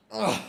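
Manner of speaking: grunting while lifting; strained grunt from the lift; effort grunt. Real, not acted. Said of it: "Sorry, I'm grunting".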